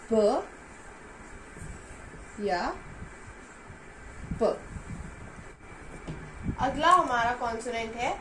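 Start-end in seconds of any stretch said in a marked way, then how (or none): 0.1-0.5 isolated sound ब, said clearly on its own; first of two sounds, ब; letter sound demo. Shown as a demonstration. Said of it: "पियप की sound होती है". 4.4-4.4 isolated sound प, said clearly on its own; second of two sounds, प; letter sound demo. Shown as a demonstration. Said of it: "पियप की sound होती है".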